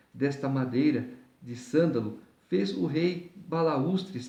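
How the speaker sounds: measured, deliberate Bible reading; scripture reading. Acted. Preacher reading the chapter to listeners, formal scripture reading. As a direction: read the chapter aloud in careful phrases.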